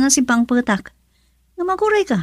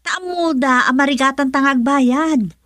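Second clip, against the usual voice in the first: slow, tearful cry breaking into a shout; crying lament. Acted. Wife cries to husband that nobody will lend money, slow tearful wail. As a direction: wail it out as if at the end of her rope.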